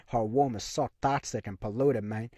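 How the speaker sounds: a movie line half-laughed out; laughing through a quote. Retold or imitated. Retelling the Scarface dinner scene, laughing. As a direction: chuckle while quoting Tony.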